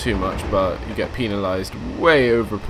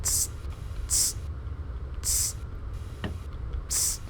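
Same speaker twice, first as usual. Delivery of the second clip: short imitated "tss" of a train brake; imitated brake hiss; 12 dB quieter than usual. Player messing around with the train brake, imitated hiss.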